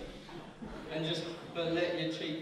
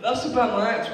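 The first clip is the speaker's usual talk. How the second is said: high, loud squawky cartoon duck; Donald Duck voice; 10 semitones higher, 5 dB louder than usual. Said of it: "except for Donald Duck sneezing".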